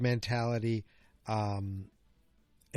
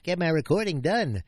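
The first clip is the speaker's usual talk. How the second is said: mock dutiful; 5 semitones higher, 4 dB louder than usual. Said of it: "So I'm like".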